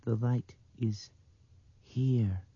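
slow, high dreaming voice; dreamy little girl. A narrator's reading. Blind girl sensing light, slow and dreamy. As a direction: drift through it in a high child's voice. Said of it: "in that dreaming voice".

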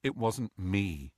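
soft, slow, flat denial; flatly. Acted. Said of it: "said Harry flatly".

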